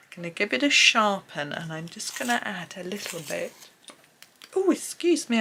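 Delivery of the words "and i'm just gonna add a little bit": hiccuping mid-sentence; small hiccup breaking the words. Real, not acted. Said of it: "I have hiccups".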